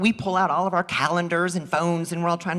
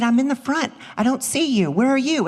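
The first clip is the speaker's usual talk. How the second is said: louder, puzzled phone question; friend's puzzled call; 7 semitones higher, 4 dB louder than usual. Retold or imitated. Friend in the front of the theater, puzzled and raised. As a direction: ask where she is, a touch raised.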